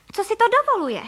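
very high, loud, scandalised; how dare she, yelled high; indignant outburst. Acted. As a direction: shriek of outrage. Outraged at duck in her kitchen.

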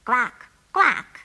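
loud double quack; duck quacking. Acted. Duck answers the phone.

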